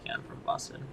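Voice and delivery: softly whispered, breathy and throwaway; soft whispered aside; whispered quote. Retold or imitated. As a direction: mutter it like a white lie. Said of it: "easier to be like".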